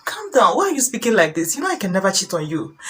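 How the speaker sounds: lightly acted soothing plea; begging husband. Husband begging his angry wife, mildly pleading. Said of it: "begin to beg you".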